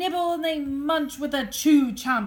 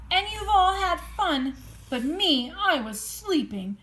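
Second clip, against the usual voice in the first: whimpering bear. Acted. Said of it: "he whimpers".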